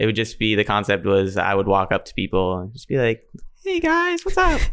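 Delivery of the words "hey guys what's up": tiny mouse voice, very high and squeaky. Recalling how they greeted strangers in their old videos; put-on mouse voice. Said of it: "Mouse voice".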